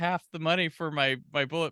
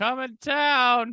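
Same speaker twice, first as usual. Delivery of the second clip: mock high taunting yell, "town" drawn out; 7 semitones higher than usual. Retelling how a character taunts Tony, retelling a yell. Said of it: "yelling at him like".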